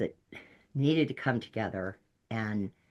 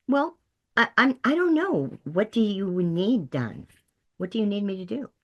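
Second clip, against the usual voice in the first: flustered reply; 8 semitones higher than usual. Retold or imitated. Taken-aback counselor answering hostile client.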